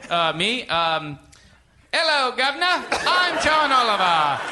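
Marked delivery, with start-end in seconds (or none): 1.9-4.4 put-on light British accent; John Oliver impression. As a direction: introduce yourself like a late-night host. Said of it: "give me your best John Oliver impression".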